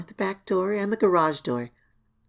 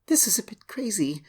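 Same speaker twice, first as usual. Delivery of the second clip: whispered aside; 2 semitones higher than usual. Acted. Aside, unvoiced.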